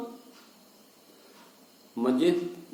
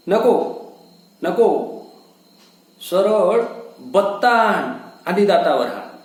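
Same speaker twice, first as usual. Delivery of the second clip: desperate plea. Acted. Husband pleading in pain.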